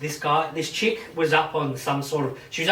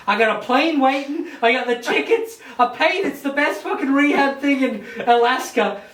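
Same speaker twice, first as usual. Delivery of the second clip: building from urgent to much higher and louder; frantic father; 7 semitones higher, 3 dB louder than usual. Retold or imitated. Father selling the judge on rehab, climbing to a frantic mock peak.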